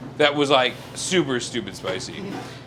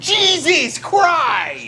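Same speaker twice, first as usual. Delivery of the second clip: shocked exclamation; 13 semitones higher, much slower than usual. Real, not acted. Sees the Carolina Reaper powder.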